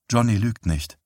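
understated toneless repeat. Acted. Wife repeating herself to her husband, understated and toneless. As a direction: say it without any colour. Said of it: "wiederholte sie tonlos".

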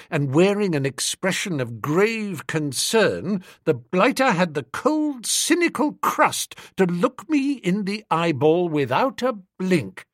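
ordinary delivery

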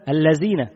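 الذين with the ذ said as ز, alladhina becoming allazina; dhal as zay. Shown as a demonstration. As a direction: say الذين with a z sound. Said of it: "بالزاي".

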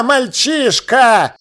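very slow, contemptuous elf voice; sneering elf lord. A narrator's reading. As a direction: drag out the insult. (презрительный эльф)

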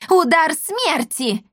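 high, slow shrieked spell name; screaming spell. A narrator's reading. Witch casts a spell at the kids, screaming. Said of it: "завопила Бия".

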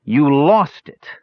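slow, high groan of dismay. A narrator's reading. Tannen realises the gem is gone, groaning. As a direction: groan it in drawn-out disbelief. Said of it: "Tannen groaned".

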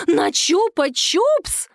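high, drawn-out shocked cry; horrified exclamation. A narrator's reading. A mother learns her daughter traded jewels for a lollipop, horrified. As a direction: gasp it out in horror. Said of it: "в ужасе воскликнула Татьяна".

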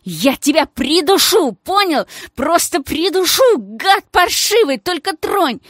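put-on high, loud girlish yell; yelled threat. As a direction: scream the threat at the thug. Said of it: "заорала Геля".

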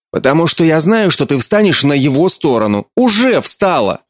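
hurt mother lashing out; mother accusing her daughter of taking sides, rising reproach. Acted.

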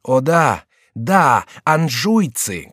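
high, loud, slow cry; shouting courtier. A narrator's reading. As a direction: yell in agreement with the king. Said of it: "кричал Келюс". (громкий крик согласия)

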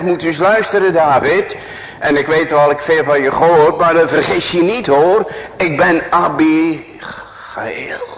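high, loud boastful woman; proud Abigail. Acted. Preacher voicing a proud Abigail speaking to David, high and loud. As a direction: hammer her proud self-importance. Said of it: "en ze zegt".

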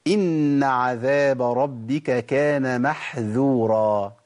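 slow recited verse with a light dh in محذورا; Quran recitation. Shown as a demonstration. A teacher recites the verse contrasting محذورا with محظورا. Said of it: "هنا محظورة وهنا محذورة".

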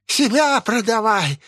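high, slow, rasping screech; wheezing hag. Acted. Possessed old woman rasping at Асами to sell herself. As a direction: rasp it out like a starving crone. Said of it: "хрипела старуха".

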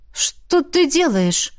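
a slow startled question; puzzled question. A narrator's reading. Miranda asks Ravena, slow and puzzled. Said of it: "спросила Миранда".

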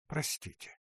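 breathy whispered "Простите"; soft whispered begging; whispered plea. Acted. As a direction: whisper "Простите" as if choking back tears. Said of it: "Глаза … наполнились слезами".

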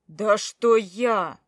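loud slow bark. A narrator's reading. Husband snapping at his accusing wife, loud bark. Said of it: "рявкнул он".

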